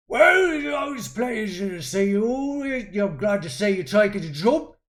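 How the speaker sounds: put-on loud, high, rough accent; gruff soldier accent. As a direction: bellow like a grizzled sergeant. GM voices NPC Volker.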